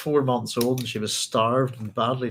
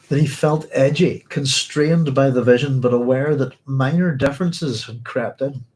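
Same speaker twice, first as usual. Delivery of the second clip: measured reading voice, louder than the chat; book reading; 3 dB louder than usual. Acted. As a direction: read it out like the page in front of you. Reading the novel passage aloud.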